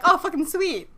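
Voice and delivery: a dumb pleased henchman; mock thug. Voicing thugs agreeing.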